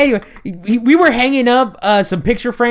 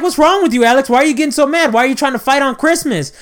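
higher-pitched mock scolding; scolding relatives; 7 semitones higher than usual. Relatives asking Alex about Christmas fight, mock scolding. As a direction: imitate fussing relatives, pitched up.

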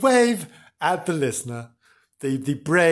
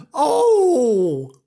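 long, high, loud wail of dismay; hammed-up dismayed "Oh"; shout of dismay; 9 semitones higher, 6 dB louder than usual. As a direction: let out a drawn-out horrified cry. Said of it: "gave a shout of dismay".

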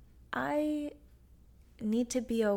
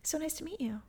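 proper posh; 7 semitones higher, 6 dB quieter than usual. Retold or imitated. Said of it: "proper. Quite posh".

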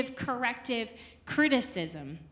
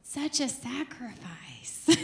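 slow, soft mock groaning complaint; mock reluctance; 9 dB quieter, slower than usual. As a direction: drag it out like a put-upon martyr. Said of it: "you think".

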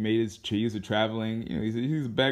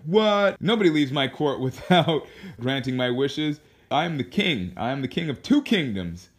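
raised, indignant king's outburst, half in jest; mock-angry king; 3 semitones higher, 3 dB louder than usual. King refused the lamp by a beggar, mock-furious. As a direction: play an outraged king, opening on a high, loud WHAT. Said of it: "the king was super pissed".

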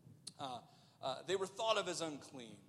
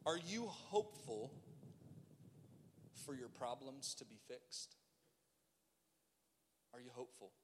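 softer, lower reflective appeal with long pauses; hushed preaching; 5 semitones lower, 6 dB quieter than usual. Real, not acted. Preacher asks congregation if they are hopeful, hushed appeal. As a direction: drop the voice and let each question sit.

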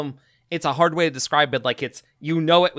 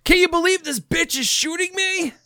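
guard voice. Retold or imitated. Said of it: "the male guards were like".

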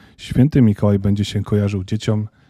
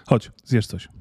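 gentle; 4 dB quieter, slower than usual. Acted. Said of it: "łagodnym tonem".

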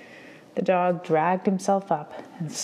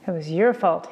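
angry yell; 4 dB louder than usual. Acted. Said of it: "he yelled".

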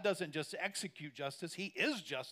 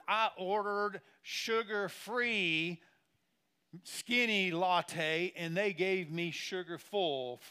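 slow, louder, stretched-out whine; mock whiny complainer; 3 dB louder, slower than usual. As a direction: parody a spoiled latte drinker. Mocking first world complainer.

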